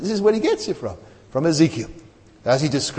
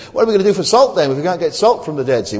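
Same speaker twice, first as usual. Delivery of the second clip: mock skeptic; 3 semitones higher, 6 dB louder, faster than usual. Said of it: "somebody who says that".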